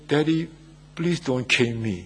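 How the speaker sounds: mildly acted child's plea; hesitant, understated plea to a parent; stunned child. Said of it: "looked so stunned and he said".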